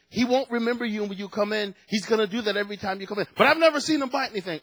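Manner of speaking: high, fast, offhand reassurance; lightly voiced dog owner shrugging it off; breezy dog owner. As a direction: brush off the danger cheerfully. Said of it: "she says".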